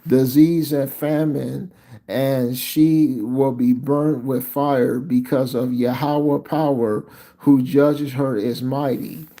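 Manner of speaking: slow, deliberate verse reading; scripture reading. Acted. Preacher reads God's warning to his people, measured scripture reading. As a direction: read it out firmly, spacing the phrases.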